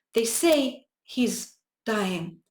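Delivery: trembling, quivering, very slow, drawn-out words. Reading a boy's words about his dying brother: quivering voice. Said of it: "with a quiver in his voice".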